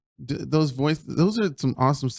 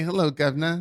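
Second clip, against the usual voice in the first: mock British accent. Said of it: "I was like".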